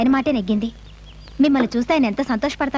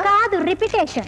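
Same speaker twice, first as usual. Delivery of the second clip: sarcastic comeback; 7 semitones higher than usual. Acted. Girl sarcastically repeats her threat.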